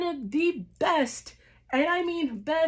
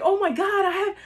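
high, loud, breathless; nearly speechless with joy; overwhelmed; 7 semitones higher, 4 dB louder, faster than usual. Retold or imitated. Fan telling viewers how it felt, overwhelmed. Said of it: "I was just like".

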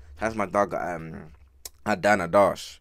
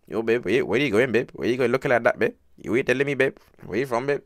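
put-on chatting up a girl in an Indian accent; mock Indian accent. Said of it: "trying to raise up a girl in".

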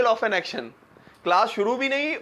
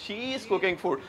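she is slurred into shiz, softer; British-style contraction; 5 dB quieter, much slower than usual. Shown as a demonstration. Teacher demonstrates the British blend to the class. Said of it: "वो कह रहे हैं".

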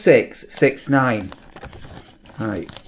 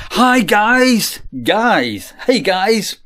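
hi guys; 4 semitones higher, much slower than usual. Retold or imitated. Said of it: "and people go".

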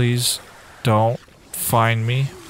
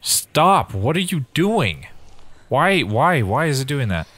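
alarmed, rising panic; panicked shout; 3 semitones higher than usual. Real, not acted. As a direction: cry out in sudden fright. Panic as creature reacts.

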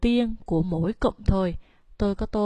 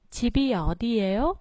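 집이 어디예요 with 집 and 어 pitched low; low phrase starts; 3 semitones higher, much faster than usual. Shown as a demonstration. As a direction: drop on 집 and 어, rise after each. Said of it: "mình xuống giọng từ chip và o".

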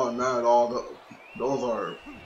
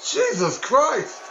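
wrestling commentator; 11 semitones higher, slower than usual. Real, not acted. Reacting to knee drop off top.

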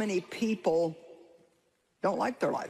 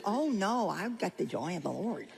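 mock religious. Preacher mimicking churchgoers who won't admit misery, mock pious. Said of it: "we don't have to get religious".

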